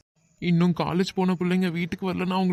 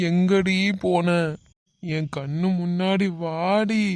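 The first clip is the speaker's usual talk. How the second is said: drawn-out plea; slower than usual. Acted. Searcher pleading to missing friend.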